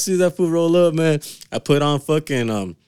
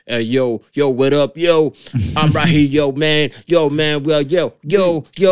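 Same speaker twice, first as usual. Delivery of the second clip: lightly voiced fake Brooklyn talk, a bit louder; mock East Coast slang; 3 dB louder, slower than usual. Mocking podcasters who fake Brooklyn talk, lightly voiced. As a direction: poke fun at wannabe New York talk. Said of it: "and then talk like".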